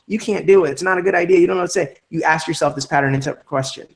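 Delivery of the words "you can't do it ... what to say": the weakness. Retold or imitated. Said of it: "that weakness starts going".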